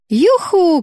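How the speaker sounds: high gleeful whoop; little sister's happy whoop. A narrator's reading. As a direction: yell it with joy as you jump. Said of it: "крикнула Стелла".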